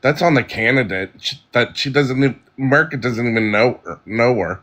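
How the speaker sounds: slurring the words; slurred speech. Real, not acted. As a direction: talk with slurred, sloppy words. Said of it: "You're slurring all of your words".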